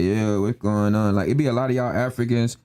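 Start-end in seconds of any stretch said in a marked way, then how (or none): 0.0-1.1 slow, low, mock Black American slang; mimicked slang. Mocking Africans who copy Black American speech, mimicked slang. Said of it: "how y'all mimic our speech".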